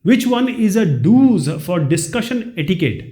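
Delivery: slow, careful reading of the quiz sentence; slow question reading. Shown as a demonstration. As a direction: read each word out slowly for the class. Reads question slowly. (धीरे-धीरे प्रश्न पढ़ना)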